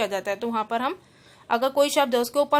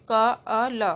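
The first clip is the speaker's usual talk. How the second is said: each sound said apart, slowly; sounded out by letter; 3 dB louder, much slower than usual. Shown as a demonstration. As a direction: spell out अ, ल as separate sounds. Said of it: "इस तरीके से".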